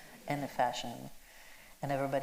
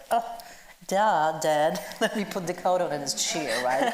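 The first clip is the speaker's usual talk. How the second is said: acted bratty teenage girl, louder, laughing through it; mocking teen; 2 semitones higher, 4 dB louder than usual. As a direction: toss it off like an eye-rolling teen daughter. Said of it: "became a joke in a script, like".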